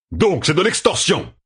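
high, slow outraged exclamation; indignant cry. A narrator's reading. Darlin protesting Rand's terms, indignant outcry. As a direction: throw the accusation back at him. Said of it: "cria Darlin".

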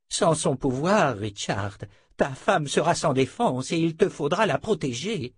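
put-on grave old sorcerer giving warning; weary old wizard. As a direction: warn them in an aged, effortful voice. (vieux sorcier qui met en garde)

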